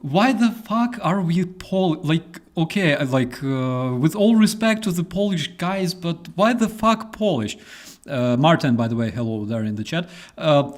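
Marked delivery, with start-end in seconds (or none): 0.0-7.6 high, exasperated disbelief; incredulous outburst. Retold or imitated. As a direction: voice jumps up in outrage. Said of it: "And we're like".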